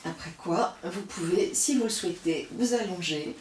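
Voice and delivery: calm, unhurried yoga guidance; soothing yoga teacher talking students through the breaths; guided yoga breathing. Acted. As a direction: lead the class gently through each breath.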